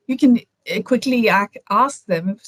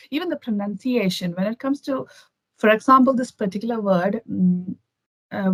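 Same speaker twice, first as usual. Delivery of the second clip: ordinary delivery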